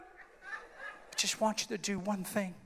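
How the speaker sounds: soft, frail acted plea; hushed patient asking a favour; Adrian. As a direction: keep it small and quiet. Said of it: "I can't talk very loud".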